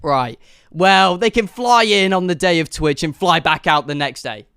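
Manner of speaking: lightly voiced offhand office worker; mock Twitch planner. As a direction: brush it off like a careless booker. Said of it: "the person at Twitch went".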